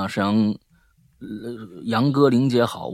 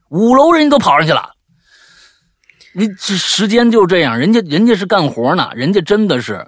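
nagging mom lecture; 4 dB louder than usual. Real, not acted. Ranting about lazy teens.

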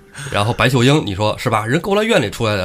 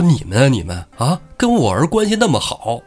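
a hint of an indignant old mother, higher; lightly voiced old woman nagging the guards; scolding old mother; 4 semitones higher than usual. Lei Heng's mother scolding the two guards, higher and indignant.

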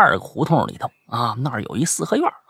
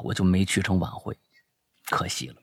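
ordinary talk

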